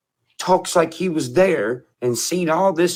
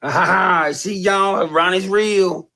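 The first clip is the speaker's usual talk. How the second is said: higher, drawn-out mock cackle and jeer; mocking laughter; 4 semitones higher, slower than usual. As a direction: imitate someone laughing it up, gloating. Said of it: "All that laughing and cutting up".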